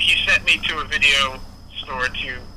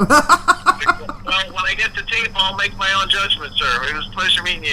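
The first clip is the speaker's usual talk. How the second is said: laughing; 4 semitones higher than usual. Retold or imitated. His own reply, laughing.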